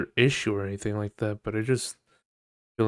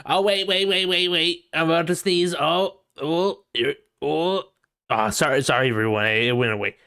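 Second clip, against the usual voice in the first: high, louder hammed-up fake sneeze; mock sneezer interrupting; 6 semitones higher, 3 dB louder than usual. Mocking a coworker's fake sneeze mid-meeting, high and hammy. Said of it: "we gotta".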